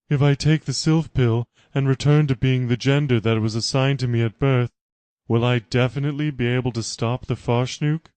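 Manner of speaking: a strained disbelieving question; incredulous Laura. Acted. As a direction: react with dawning shock. Laura asks.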